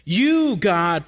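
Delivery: emphatic, lifted "You"; stress on YOU. Shown as a demonstration. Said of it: "is placed emphatically".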